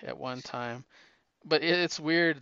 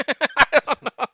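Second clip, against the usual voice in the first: laughing; 12 semitones higher, 7 dB louder, slower than usual. Real, not acted. Laughing after trying an accent.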